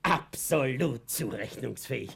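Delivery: Absolut! langsam, hoch, laut ausgerufen; triumphierend. Acted. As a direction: das Wort Absolut auskosten. Jubelnde Wiederholung des Urteils. (triumphierend Absolut! ausrufen)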